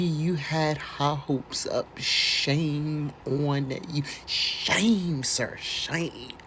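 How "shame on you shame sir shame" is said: mock scolding. Scolding the lawyer mockingly.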